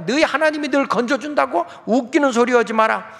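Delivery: mocking taunt. Assyrian officials ridiculing Hezekiah's God, mocking. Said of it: "막 조롱하는 거야".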